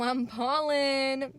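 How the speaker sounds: slow, joking brag; mock bragging. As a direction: brag it out slowly, tongue in cheek. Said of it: "just kidding".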